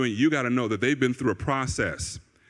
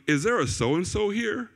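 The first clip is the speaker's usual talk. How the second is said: low-key inquiry; 5 semitones higher than usual. Retold or imitated. Prophet checking with the audience, low-key inquiry. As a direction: ask it mildly, without show. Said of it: "Very different kind of presentation".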